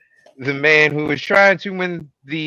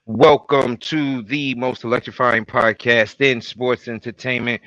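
ringmaster. Pretend. Podcast intro announcer opening.

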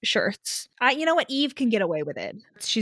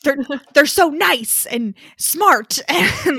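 higher, louder, slow words through laughter; laughing gush; 6 semitones higher, 8 dB louder, slower than usual. Real, not acted. Sister gushes about both leads while laughing.

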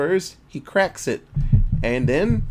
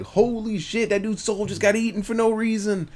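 mock shock; 6 semitones higher than usual. Reacting to scary scene.

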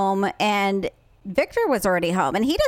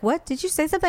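Brian; 6 semitones higher, much faster than usual. Retold or imitated. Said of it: "And Brian's like".

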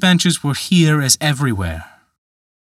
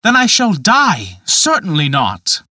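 much higher, louder, stammering gasp; a young man aghast at the bargain; horrified cry; 6 semitones higher, 5 dB louder than usual. Acted. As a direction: recoil in horror, tripping on the first word. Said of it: "quite horrified at the idea".

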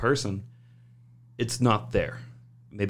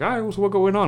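voicing coworker; 10 semitones higher, 4 dB louder, faster than usual. Coworker Mark asking.

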